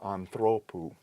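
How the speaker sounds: "anthropou" stressed on the middle syllable, -THRO-; Greek genitive anthropou. Shown as a demonstration. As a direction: demonstrate "anthropou" with the accent moved forward. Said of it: "the acute".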